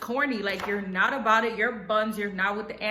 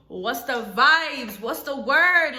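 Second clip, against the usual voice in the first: calling out; 2 semitones higher, 5 dB louder, slower than usual. Shown as a demonstration. Announcing slang phrase loudly.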